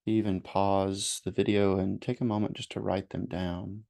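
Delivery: unhurried meditation guidance with long pauses; guided meditation. Real, not acted. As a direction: gently lead listeners through breathing and noticing.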